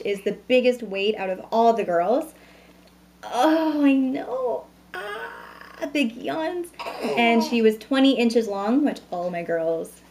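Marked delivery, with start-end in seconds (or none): 3.2-6.7 put-on high cooing over the baby's yawn. Mother coos at yawning baby.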